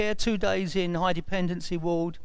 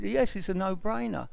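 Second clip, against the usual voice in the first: lightly imitated posh English accent; posh surgeon voice; 4 dB quieter than usual. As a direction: answer like a posh consultant, lightly mocked. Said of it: "in his posh voice".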